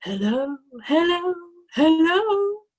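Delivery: hello rising to a squawk; parrot hello building. A narrator's reading. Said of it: "it said".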